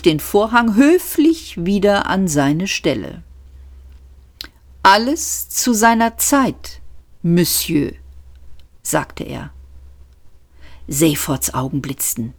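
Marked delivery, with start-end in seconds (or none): 4.8-7.9 higher, courteous footman's voice; a lightly voiced polite footman; polite servant. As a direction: gently put him off. Liveried servant speaks.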